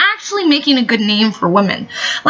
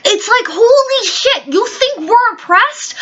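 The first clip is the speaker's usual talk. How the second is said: incredulous laughing outburst; 8 semitones higher than usual. Real, not acted. Incredulous outburst about oppression.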